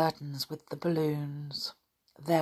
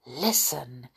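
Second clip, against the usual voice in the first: hushed, secretive; a low, lightly whispered aside; 5 semitones lower, 6 dB quieter than usual. A narrator's reading. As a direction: say it softly so others won't hear. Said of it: "he whispered".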